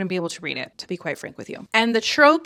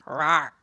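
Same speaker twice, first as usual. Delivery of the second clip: mock growl; 4 semitones lower than usual.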